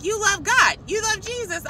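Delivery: high-pitched, giddy exclamations; thrilled mock squeal; imitating excited woman. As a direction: marvel at it in a high voice. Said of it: "she was just so excited".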